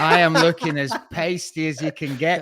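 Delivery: says it through a real laugh; chuckling at his own pasty face; amused, laughing at himself. Real, not acted. Laughing at his own pale look.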